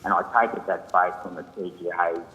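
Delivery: distant, muffled phone line; speaking too far from the phone; phone held away. Real, not acted. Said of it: "I'm having trouble hearing you".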